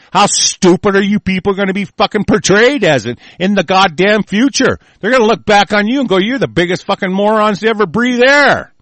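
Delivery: heated, rising exasperation; scornful rant. Real, not acted. Host berating people over future judgment, angry scorn.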